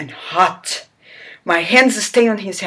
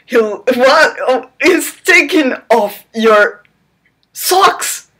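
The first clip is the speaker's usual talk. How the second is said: mock shock; 6 semitones higher, 5 dB louder, slower than usual.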